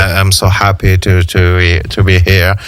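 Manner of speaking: halting English as a visiting Hollywood star; the hesitant American actor in the studio; Ryan Gosling. Pretend. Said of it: "Il est là".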